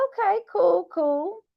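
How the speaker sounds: high, breezy mock reaction; high mock okay. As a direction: chirp it like a fake-cheery nod.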